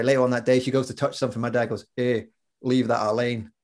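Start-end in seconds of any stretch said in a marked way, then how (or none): 2.0-3.5 Scottish "leave that Elaine" for "leave that alone"; Glaswegian dad. Retold or imitated. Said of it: "my dad's from Glasgow".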